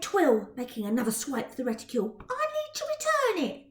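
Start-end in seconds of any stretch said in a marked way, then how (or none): 2.3-3.7 put-on insistent girl. Twill insisting.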